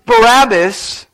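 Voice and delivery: loud, drawn-out shout of the crowd; crowd's shout. Retold or imitated. Preacher shouts the crowd's answer, loud and slow. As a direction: call out the name like a mob. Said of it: "the voice of the crowds responded".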